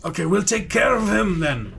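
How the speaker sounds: a hint of the same local; villager voice.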